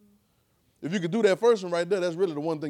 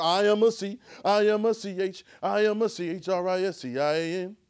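spelling it out; 3 semitones higher, 3 dB louder than usual. Shown as a demonstration. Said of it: "spelling Christian letter by letter".

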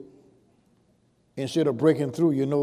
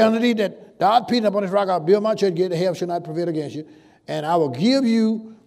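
preaching at full force; 3 dB louder than usual. Acted. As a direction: thunder the promise to the church. Preaching climax.

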